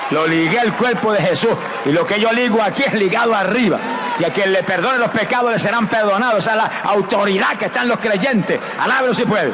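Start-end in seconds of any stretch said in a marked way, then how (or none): 0.1-5.6 higher, ringing declaration; preaching declaration. Acted. Preacher claiming binding power, raised voice. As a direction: proclaim it with authority.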